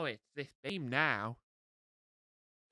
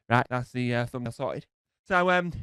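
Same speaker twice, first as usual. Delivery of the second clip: breathless, catching his breath; 3 semitones lower, 6 dB louder than usual. Real, not acted. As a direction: talk while winded. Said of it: "oh, I'm out of breath".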